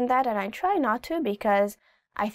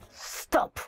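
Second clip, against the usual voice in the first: quiet stern stop; 4 dB quieter than usual. Shown as a demonstration. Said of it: "It's more of like a s".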